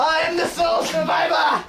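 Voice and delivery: high victory yell; triumphant shout. Pretend. Victory cry in the game.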